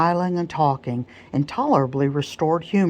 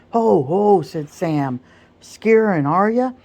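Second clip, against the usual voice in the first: gleeful taunt; 4 semitones higher, 4 dB louder than usual. Acted. Sam teasing the skittish colt.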